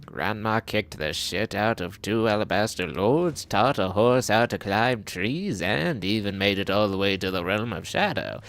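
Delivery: lightly voiced old lady; a hint of a proud granny; grandma voice. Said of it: "My grandmother voice is going to need work".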